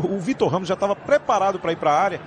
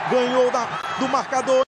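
explosive goal commentary; 9 semitones higher than usual. Real, not acted. Attack building, commentator shouts.

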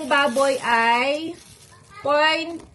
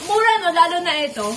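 excited; 5 semitones higher, 4 dB louder, much faster than usual. Real, not acted. Excited about cheap prices.

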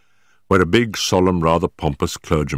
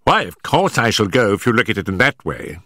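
mild horrified; 5 semitones higher than usual. Acted. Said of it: "Our client seemed horrified at the suggestion".

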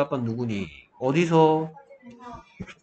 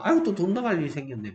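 grumbling parents; 3 semitones higher, much faster than usual. Retold or imitated. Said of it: "엄마 아빠는".

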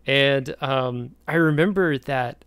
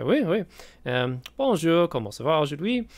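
eager tourist French; 3 semitones higher than usual. Retold or imitated. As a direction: greet the cashier in earnest schoolbook French.

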